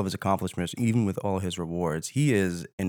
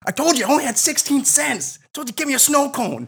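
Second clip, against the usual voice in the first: squeaky high put-on voice, pleading; high whiny character. Friend pleading over a sandwich, squeaky whine. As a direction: whine it up high like a broke kid.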